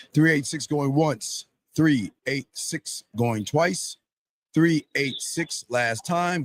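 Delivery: slow, drawn-out auction call; auctioneer countdown. Acted. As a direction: call it out like an auctioneer going once. Host counting down an unanswered caller.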